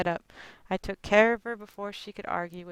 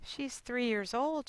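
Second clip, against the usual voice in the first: daughter rebuking; 5 semitones higher, 6 dB quieter, slower than usual. Retold or imitated. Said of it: "I say".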